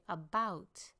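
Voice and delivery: "about" with short first syllable, long BOUT; lengthened second syllable. Shown as a demonstration. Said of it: "and lengthen the second one".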